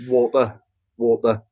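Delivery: Welsh-style "water", middle consonant turned to D; "water" with a D sound in the middle. Shown as a demonstration. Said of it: "like, a D on it".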